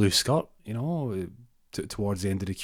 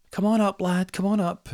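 put-on high, louder old dear calling up; old lady calling; 12 semitones higher, 5 dB louder than usual. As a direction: call out like a granny at the buzzer.

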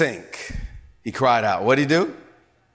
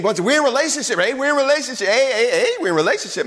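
urgent plea; 8 semitones higher, 4 dB louder than usual. Acted. Peter pleads with Jesus.

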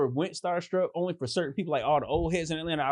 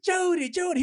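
high, louder calling in a put-on woman's voice; playful fake female call to get his attention; 4 dB louder than usual. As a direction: call his name like a woman across the club. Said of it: "I did a female voice".

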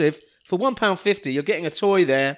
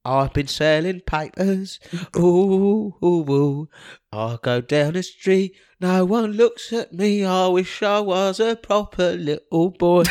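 put-on cheeky scrappy street kid; slower than usual. Urchin sketch monologue.

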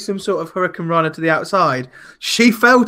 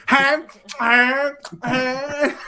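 higher, goofy imitation; imitating her noises; 6 semitones higher, much slower than usual. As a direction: mimic her silly entrance noise. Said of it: "She came out going".

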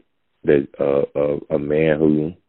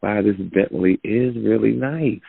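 higher, softer mock admiration; acted giving in; 6 semitones higher, 4 dB quieter than usual. Doubter conceding about the Bentley, mock admiring. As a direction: cave in with put-on awe. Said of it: "you break down because you see".

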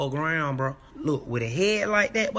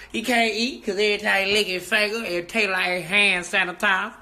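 laughing retake; 2 semitones higher, 3 dB louder than usual. Acted. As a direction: crack up while delivering it. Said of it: "That's how you gotta say it".

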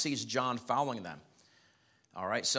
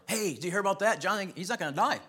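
gossipy whisperer; 8 semitones higher, 4 dB louder than usual. Acted. Brethren spreading gossip.

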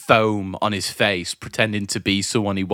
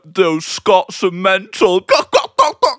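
much higher, louder mock chant; mock cheering; 8 semitones higher, 5 dB louder than usual. Mocking Brits cheering the Scots, high and loud. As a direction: mimic a crowd egging someone on. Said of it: "British people are just like".

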